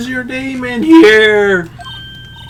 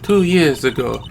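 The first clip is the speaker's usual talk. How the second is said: much lower, soft, ominous narration; 14 semitones lower, 7 dB quieter than usual. Acted. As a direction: drop into a dark, dramatic tone. Ominous low dramatic narration.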